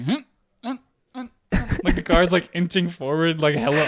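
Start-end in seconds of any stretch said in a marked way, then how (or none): 0.0-1.8 short high "hmm" lurches with gaps; imitated stalling car. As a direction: mimic a car jerking forward on the clutch. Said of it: "it's like".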